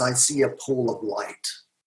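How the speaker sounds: mock slow, shaking, trembling, trance-like voice. Retelling what a hypnosis subject said in session: imitating a shaking voice. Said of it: "Her voice is shaking".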